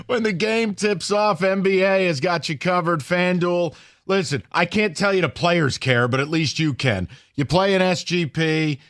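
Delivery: slow, upbeat sponsor read. Acted. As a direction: read it like a live radio ad. Reads a sponsor ad.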